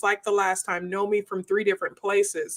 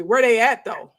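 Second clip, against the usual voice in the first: louder, pushy "where they at"; ready-to-fight question; 2 semitones higher, 4 dB louder than usual. Retold or imitated. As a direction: sound ready to go find them. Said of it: "Mine is usually".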